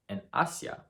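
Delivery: Asia with an s; Latin American s. Shown as a demonstration. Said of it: "homophones in Latin American Spanish".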